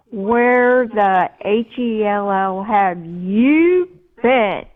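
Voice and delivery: a retold, mildly furious husband; angry husband. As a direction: spell it out slowly like a mad coach. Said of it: "my husband was so angry with me".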